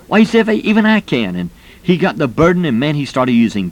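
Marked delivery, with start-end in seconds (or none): 0.1-1.4 high-pitched retold enthusiasm; excited realization. Retired executive telling his teacher he can do it too, excited. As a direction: voice leaping up in delighted discovery.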